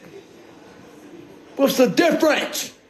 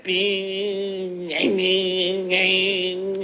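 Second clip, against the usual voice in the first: bing said soft and lower, like a bell; mimicked dings; 3 semitones lower, 4 dB quieter, much slower than usual. Explaining thoughts landing, soft bing sounds. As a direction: tap out bing bing in the head. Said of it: "registered in my head".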